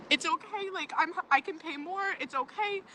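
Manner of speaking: soft, soothing retold reassurance, lightly voiced; calm the angry nail tech down softly; trying to stay calm.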